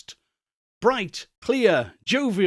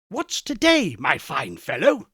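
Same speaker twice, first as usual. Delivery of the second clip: calling down. Acted. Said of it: "said Scrooge".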